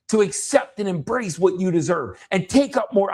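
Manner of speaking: retold impassioned urging; intense, assertive. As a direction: coach someone through it with fervour. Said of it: "way more intense and way more loud".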